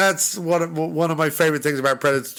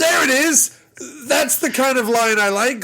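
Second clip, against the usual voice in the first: laughing delight; 10 semitones higher than usual. Real, not acted. Cheering a great movie line to his co-host, laughing.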